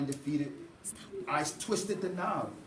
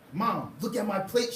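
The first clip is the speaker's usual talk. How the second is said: gleeful shout; 4 semitones higher, 3 dB louder than usual. Acted. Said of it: "she shouted with glee".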